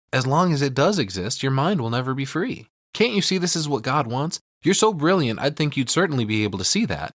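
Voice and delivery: a hint of a preachy zealot; rising sweet preaching; mock Annie voice. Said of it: "But she tells him".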